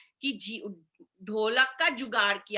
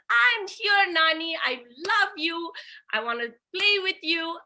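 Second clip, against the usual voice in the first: put-on happy boy; 4 semitones higher than usual. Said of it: "he's so happy".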